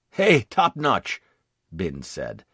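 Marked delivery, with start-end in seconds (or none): 0.1-1.2 higher, louder, slow hail; lightly raised call to a comrade. A narrator's reading. Marine calls out to sergeant.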